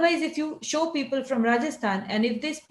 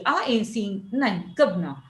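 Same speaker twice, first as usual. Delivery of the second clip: governor clipped to kuvna, I ain't seeing nothing; lightly voiced local man; regional speaker; 2 semitones lower than usual. Shown as a demonstration. Teacher showing how the regional man talks. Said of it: "So he will speak like this only".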